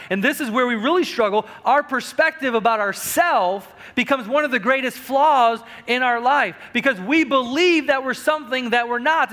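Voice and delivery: full-force pulpit delivery; fiery preaching. Acted. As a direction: preach it hard to the congregation. Preacher builds again.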